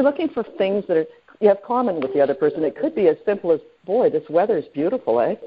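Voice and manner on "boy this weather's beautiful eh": Canadian accent on the closing "eh"; light Canadian accent with a tagged-on "eh". Shown as a demonstration. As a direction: end on a Canadian-style "eh?". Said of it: "that's my Canadian accent on the end".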